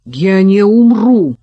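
loud, high and slow roar; furious shout. A narrator's reading. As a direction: bellow it as he lunges. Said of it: "закричал он". (яростный крик)

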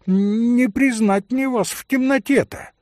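put-on high old woman's voice; lightly voiced old servant woman. A narrator's reading. Old servant woman peers at Mitya in the dark, high old voice.

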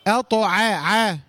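slow "أطع", heavy ط then a thin ع; careful syllables of "أطع", ع kept light; only ta heavy. Shown as a demonstration. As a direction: isolate a light ع after the ط in "أطع". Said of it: "حرف الطاء بس المفخم".

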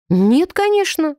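slow, high scornful snort. A narrator's reading. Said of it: "фыркнула девушка".

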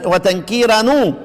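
"وتنكيرا نو" with the tanween nun given a clear "u"; damma on linking nun. Shown as a demonstration. Teacher showing how two sakins are avoided, "وتنكيرا نو" ending in damma. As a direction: end "وتنكيرا نو" on a drawn-out "nu". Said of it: "نضم الايه؟ الساكن للتخلص من التقاء الساكنين".

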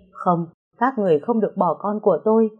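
put-on begging them not to take her child; desperate cry. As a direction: voice rising to a shout. Refuses to lose her baby. (mẹ gào lên tuyệt vọng giữ con)

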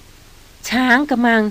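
slow, shaky gasped guess; trembling exclamation. A narrator's reading. Young woman gasps her fear to the hunter, trembling. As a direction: let the fear shake the words. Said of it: "หญิงสาวอุทานเสียงสั่น".

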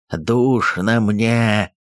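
very slow inhuman cry; eldritch horror. Acted. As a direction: groan it like something not human. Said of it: "нечеловеческим голосом закричал Устюгов".

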